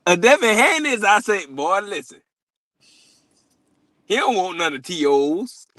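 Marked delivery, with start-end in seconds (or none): 1.0-5.7 mock whisper. Rooster voice, whispered line.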